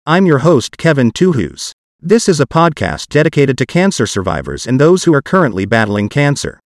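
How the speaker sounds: synthetic text-to-speech voice; computer-generated voice. Real, not acted. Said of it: "So my parts will be done with a computer-generated voice".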